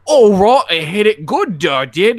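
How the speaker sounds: high, loud simple villager; simpleton voice. Retold or imitated. Simpleton agreeing to fetch the treasure, high and loud. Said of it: "talk to the simpleton again".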